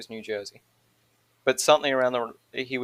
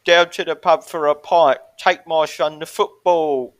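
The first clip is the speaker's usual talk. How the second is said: higher, loud mock British geezer; British hick accent; 4 semitones higher, 6 dB louder, slower than usual. Echoing a friend's pub line, hammed-up British hick accent. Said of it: "the, the British hick".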